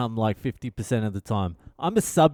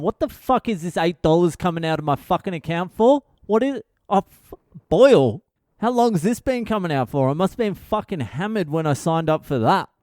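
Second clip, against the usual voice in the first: higher-pitched, baffled outburst at a bank charge; outraged subscriber; 4 semitones higher than usual. Pretend. Imagined subscriber puzzling over an eight-dollar charge, mock-baffled and high. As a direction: squawk in mock disbelief while reading the statement. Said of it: "I can just picture those people going".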